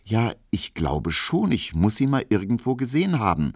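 lightly voiced stammering excuse. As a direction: fumble for the words, then hurry through. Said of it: "stotterte Emil Kubinke".

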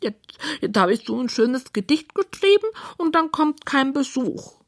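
high, squeaky piggy lament; sad pig. A narrator's reading. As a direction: whine sorrowfully in a little pig voice. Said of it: "schaut ganz traurig aus".

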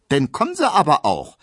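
playful, enticing invitation; alluring smile. A narrator's reading. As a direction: smile it out, luring him. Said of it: "mit ihrem verlockendsten Lächeln".

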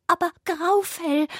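very high squeaky rabbit call; a worried little creature crying out. A narrator's reading. Rabbit cries for its missing friend. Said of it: "rief das Kaninchen".

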